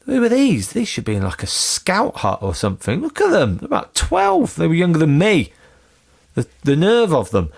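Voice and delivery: sneering, high, incredulous; mock outraged inner voice. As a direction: scoff at the young band in disbelief. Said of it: "and I thought".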